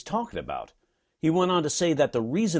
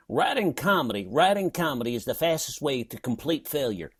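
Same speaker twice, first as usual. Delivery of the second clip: a touch of Kentucky in the quoted line; southern accent; 3 semitones higher than usual. Retold or imitated. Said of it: "that southern accent".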